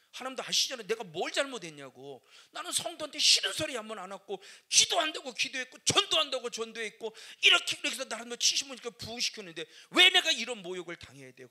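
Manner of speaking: loud, pleading cry at God; a wounded pastor shouting his grievance to God; anguished complaint. Retold or imitated. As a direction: hurl the complaint upward, high and loud.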